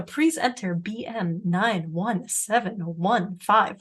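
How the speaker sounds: slow robotic phone menu voice; automated phone voice. Retold or imitated. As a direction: read the digits like a phone system. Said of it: "giving you the digits when you call a phone number".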